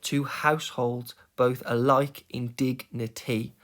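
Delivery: "Two households, both alike in dignity", every second syllable stressed. Shown as a demonstration. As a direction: lean on HOUSE, BOTH's following beats, LIKE and DIG. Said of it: "more of an emphasis on it".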